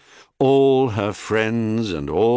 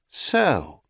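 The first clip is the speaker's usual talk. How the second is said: icy calm; 2 semitones higher than usual. Acted. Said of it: "said the goddess with icy calm".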